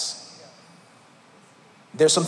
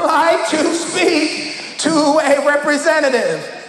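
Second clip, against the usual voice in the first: very slow, loud, higher, laughing through it; slow exaggerated request; 7 semitones higher, 4 dB louder, much slower than usual. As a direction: drag each word out for the machine. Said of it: "I'm gonna try it again".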